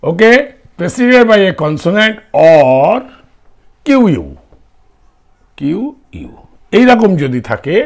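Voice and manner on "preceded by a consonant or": slow dictation. Shown as a demonstration. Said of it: "repeats condition slowly".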